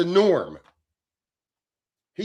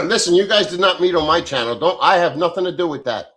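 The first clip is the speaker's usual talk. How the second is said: louder, insisting he has no part in it; loud protest; 6 dB louder than usual. Real, not acted. To chatters teasing him, a loud protesting denial. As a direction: push back hard, wave it off.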